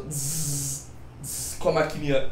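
soft imitated tattoo-machine buzz; quiet mock buzz of the machine; buzzing needle noise. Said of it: "Aí ele assim, ó".

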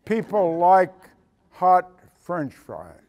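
slow, deliberate "People like hot French fries"; eleven-year-old stating a simple truth, slowly; slow boy's answer. Retold or imitated. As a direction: spell it out like it's obvious. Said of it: "cocked his head and said".

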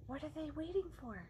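hushed storytime whisper; suspense whisper. Acted. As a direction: draw the kids in with a secret. Reads suspense part in whisper.

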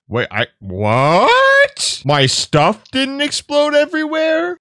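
high, slow, stunned squeal; can't believe the loot survived; amazed disbelief. Real, not acted. Gamer finding his stuff intact, high stunned disbelief.

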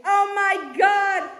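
high, slow, drawn-out wonder; amazed exclamation. Real, not acted. Admiring the poster, high and drawn-out. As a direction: stretch it out, awestruck.

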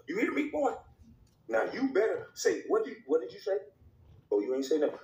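high voice barking at the player; mock owner. Skit owner berating player.

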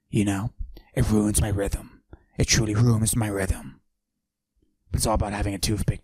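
macho voice pushed down, held the whole bit; forced deep voice. Acted. Mister Steal Your Girl hiding his estrogen with a forced deep voice. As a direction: fake a deep tough-guy voice. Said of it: "I deepen my voice like this".

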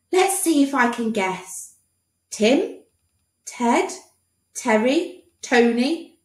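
high, eager guessing doctor voice. Acted. Doctor guessing the boy's name, eager high voice. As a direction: rattle off guesses hopefully.

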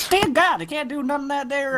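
mock Southern hick. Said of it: "just leave that to me".

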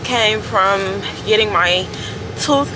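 numb mouth, slight lisp; numb from the dentist. Real, not acted. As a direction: talk through a numbed mouth. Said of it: "my mouth is numb".

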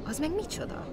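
high, small, puzzled voice; baffled question. A narrator's reading. Bear puzzled by talk of tickets, baffled. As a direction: ask in utter bewilderment.

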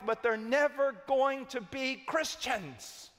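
building preaching. Real, not acted. Preacher warning the congregation about lifelong churchgoers, building to a cry. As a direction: build from measured to high and forceful.

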